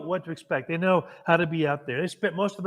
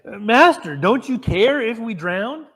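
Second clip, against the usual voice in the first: high, loud, slow cry of panic; desperate plea; 5 semitones higher, 6 dB louder, slower than usual. Retold or imitated. Disciples waking Jesus in the storm, terrified and pleading. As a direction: plead with him as the boat fills. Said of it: "they wake him and say".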